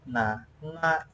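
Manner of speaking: "Na" as a clear open syllable; Quechua pronunciation. Shown as a demonstration. Teacher models an alphabet sound for learners, Quechua pronunciation. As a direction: say "Na" with a plain n and open a. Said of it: "you pronounce in Quechua".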